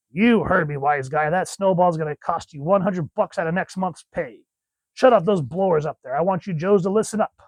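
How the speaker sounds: a touch of a tough sergeant handing out orders; comic-book officer. Acted. Hawk orders the Joes to listen up, lightly acted gruff command.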